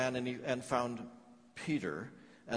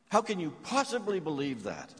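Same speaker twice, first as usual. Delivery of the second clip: louder and higher, pressing the question; incredulous challenge; 5 semitones higher, 4 dB louder than usual. Acted. Grieving mother demanding of the narrator, incredulous and louder. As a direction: demand an answer in disbelief.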